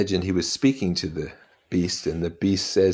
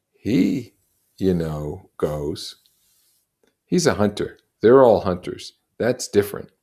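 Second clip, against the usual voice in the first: higher, louder Ralph, scornful; Ralph, grimacing; 4 semitones higher, 7 dB louder than usual. Acted. Ralph dismissing the hunters to the boys, grimacing.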